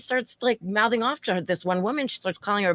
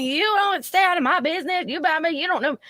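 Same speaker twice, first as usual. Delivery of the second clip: shrill, fast, much higher put-on voice; mocking high drunk voice; 10 semitones higher than usual. Server mocking drunk customer, shrill and fast. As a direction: mimic her, high and fast. Drunk woman mocked again.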